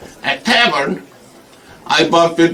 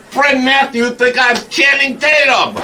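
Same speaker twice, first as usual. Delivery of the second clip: laughing; 8 semitones higher than usual. Acted. Realization, bursts out laughing.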